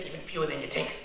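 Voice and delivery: New York accent put on for a comeback; heavy New York accent. Answering a fellow TA who took him for a WASP, heavy New York accent. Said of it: "put on my heaviest New York accent".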